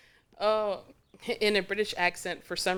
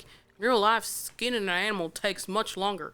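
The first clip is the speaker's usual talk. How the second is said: mock game narrator; 3 semitones higher, 6 dB louder than usual.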